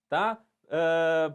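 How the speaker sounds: normal talking voice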